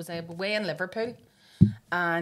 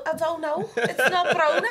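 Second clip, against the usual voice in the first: higher fake Scouse denial; put-on Scouse accent; 9 semitones higher, 7 dB louder than usual. Lying in bed fooling her friends, put-on Scouse. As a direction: insist in an imitated Scouse accent. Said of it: "I put an accent on".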